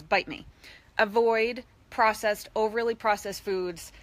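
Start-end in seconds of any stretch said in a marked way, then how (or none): 0.0-0.5 hot dog voice. Pretend. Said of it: "it says".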